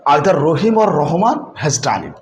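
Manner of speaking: very slow example sentence; teacher dictating the example sentence slowly; slow dictation. Shown as a demonstration. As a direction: read each word slowly for the class. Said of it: "যদি এভাবে বলি".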